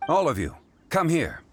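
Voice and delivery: calling from afar. Acted. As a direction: call the group over from a distance. Zhongli's voice came from behind the tree.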